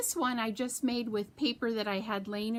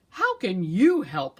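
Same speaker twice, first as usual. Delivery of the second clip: mocking squirrel; 2 semitones lower, 8 dB louder than usual. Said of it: "laughed Squirrel".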